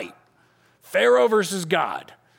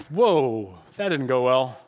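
deflated; 5 semitones lower, slower than usual. Acted. Deflated after the sudden whack.

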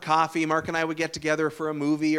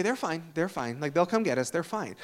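unbothered; 6 dB quieter than usual. Retold or imitated. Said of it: "And Jen would say".

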